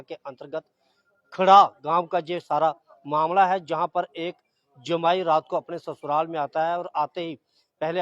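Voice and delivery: field reporter's measured delivery, phrase by phrase; news report sign-off. Real, not acted. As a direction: sum up the case for viewers with short pauses between phrases. Reporter's piece to camera and sign-off.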